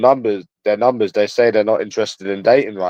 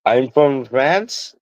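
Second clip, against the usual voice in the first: put-on slow, drawn-out French accent with a rising end; put-on French accent, stretched out; mock French accent; 2 semitones higher, much slower than usual. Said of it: "In their little French accent".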